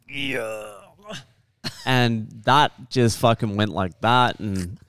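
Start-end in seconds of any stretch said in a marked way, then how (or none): 0.1-0.7 soft drawn-out "eeyuh" noise; quiet vocal sound effect for a tearing lip; imitated ripping noise. Storyteller mimics his lip being bitten through, soft imitated noise. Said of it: "just went".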